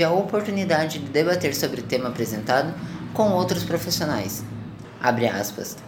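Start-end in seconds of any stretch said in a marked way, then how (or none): 5.0-5.8 dictating. Real, not acted. Spoken quote marks in report.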